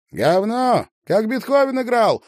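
put-on high, loud girl's cry; high excited call; shouting out. A narrator's reading. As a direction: yell it across the room, high-pitched. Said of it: "выкрикнула высокая".

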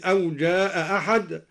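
أو جاء أحد with the first hamza of أحد dropped, جاء running straight into أحد. Shown as a demonstration. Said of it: "قرأ بإسقاط الهمزة".

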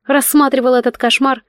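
usual speaking voice

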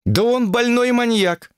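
high, drawn-out indignant cry. Acted. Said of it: "возмутилась аспирантка". (возмущённо, на высоких нотах)

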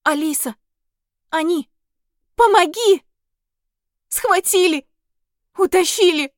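high, loud, frantic pleading; a terrified fairy screaming for help; panicked cry for help. Acted. Fairy Sonya calls to Alice in panic, high frantic cry.

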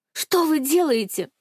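high, slow, pleading cry; alarmed cry. Acted. Heroine begs Titov to stop beating Alik, alarmed. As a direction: stop him with a desperate plea.

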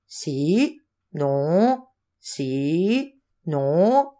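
drawn-out, alternating yes and no; mock squabble between two men; back-and-forth bickering. A narrator's reading. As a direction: trade stubborn one-word contradictions.

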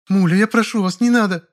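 a sister begging him to spare her brother; pleading woman. Acted. Muza pleads again.

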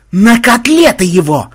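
high, loud, drawn-out battle cry; excited war whoop, stretched out; gung-ho yell. A narrator's reading. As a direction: holler it with reckless glee. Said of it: "азартно завопил Махмуд".

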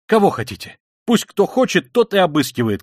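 high, loud defiant cry; shouting. A narrator's reading. Katerina Ivanovna letting anyone search Sonya, defiant shout. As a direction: shout it as an open challenge. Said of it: "кричала Катерина Ивановна".

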